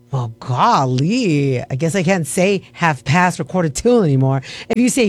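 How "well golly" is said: mock old-timer. Mock old-fashioned exclamation.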